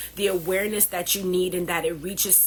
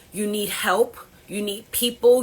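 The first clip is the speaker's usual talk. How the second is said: urgent plea; 3 semitones higher, 6 dB louder than usual. Real, not acted. Emotional plea to caregivers.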